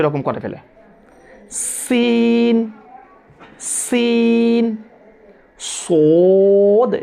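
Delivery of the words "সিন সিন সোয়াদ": long spread-lip "সিন", then round-lipped "সোদ"; sin and sad. Shown as a demonstration. Teacher showing students spread "সিন" against rounded "সোদ". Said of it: "সিন বলতে মুখটা একটু মেলে যাবে".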